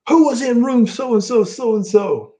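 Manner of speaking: imitating Sid asking who called his room; mock Sid demand. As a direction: bellow it like a huge angry wrestler.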